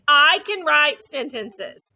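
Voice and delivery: slow, clear model sentence; saying aloud. Shown as a demonstration. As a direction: model it slowly for a class to echo. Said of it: "Say it again".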